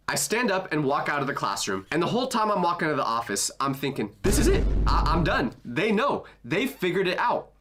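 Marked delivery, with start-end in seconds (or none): 4.2-7.5 spiral as if you've been caught; acted-out dread, urgent and high; mock panic. Acts out panicked thoughts while walking.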